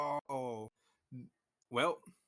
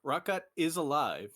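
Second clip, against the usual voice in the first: dramatic announcement; 4 semitones higher, 5 dB louder than usual. Acted.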